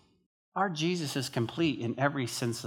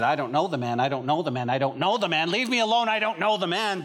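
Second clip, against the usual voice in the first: repeated denial climbing to a higher pitch; acted protest, growing more agitated; insistent denial, building; 3 semitones higher than usual.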